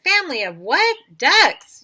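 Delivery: high, loud incredulous question; storybook yell. A narrator's reading. Policemen on the phone about ducks, yelled disbelief. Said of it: "yelled Michael".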